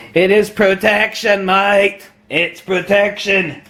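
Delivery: insistent mock Aussie; Australian accent. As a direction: press the point in a put-on Australian accent. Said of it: "my use of an Australian accent".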